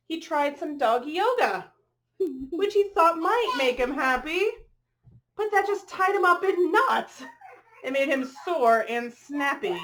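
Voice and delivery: bright, rhythmic picture-book read-aloud; reading to children. A narrator's reading. Reading a rhyming dog story to children, lilting storyteller voice. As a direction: read the rhyme to the little ones.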